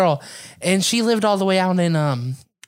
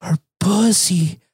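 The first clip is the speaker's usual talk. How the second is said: slow, rising, building to a loud high shout; disgusted outburst; 10 semitones higher, 3 dB louder, much slower than usual. Retold or imitated. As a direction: stretch out the disgust then yell. Friend's disgusted retold complaint.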